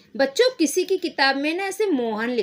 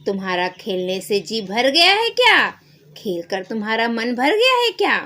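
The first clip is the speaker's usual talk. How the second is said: put-on a doctor playfully checking on the boy; teasing doctor; 5 dB louder than usual. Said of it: "doctor साहब बोलते हैं". (छेड़ते हुए doctor साहब)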